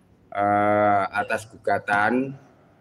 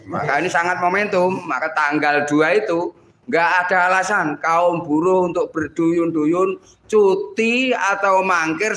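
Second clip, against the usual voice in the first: rising to a higher fired-up pitch; fiery revolutionary speech; 6 semitones higher than usual. Real, not acted. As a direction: stir the workers with growing fire. Union leader rallying workers. (pidato perjuangan berapi-api)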